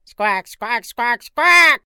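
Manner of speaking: high loud squawking; angry penguin squawks. Acted. Penguins warning tourists, loud squawks.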